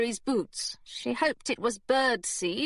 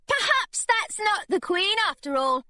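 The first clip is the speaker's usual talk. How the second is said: mock puzzled; 11 semitones higher than usual. Girl fooling secretary.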